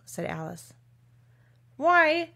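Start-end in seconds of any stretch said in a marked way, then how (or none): 1.8-2.3 high, loud, drawn-out triumph; king announcing his proof in triumph; triumphant. A narrator's reading. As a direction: crow it out slowly and proudly. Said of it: "said the king triumphantly".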